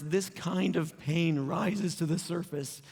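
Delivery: slow, emotion catching in the throat; fighting back tears; voice breaking. Real, not acted. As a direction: let real grief slow the words down. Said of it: "gonna keep my voice together here".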